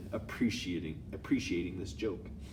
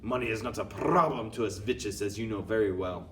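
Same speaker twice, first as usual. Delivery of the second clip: louder scornful put-on accent; shouting witch; 2 semitones higher, 6 dB louder than usual. Grand High Witch scorning cheap shops, shouting. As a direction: shout down the idea. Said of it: "shouted the Grand High Witch".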